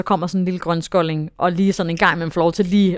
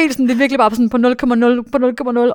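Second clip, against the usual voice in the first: fast, laughing, higher delivery; giddy laughter through the words; laughing excitedly; 5 semitones higher, 5 dB louder, faster than usual. Real, not acted. Retelling the narrow win, laughing.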